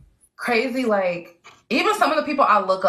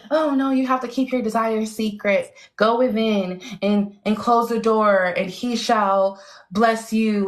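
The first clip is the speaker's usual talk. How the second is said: hint of a solemn preacher; mocking pious advice. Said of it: "people like".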